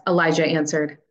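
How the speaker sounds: usual speaking voice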